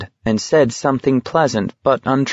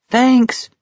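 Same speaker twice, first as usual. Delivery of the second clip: hollered; 14 semitones higher than usual. A narrator's reading. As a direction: holler it across the crowd. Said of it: "he hollered to McVrees".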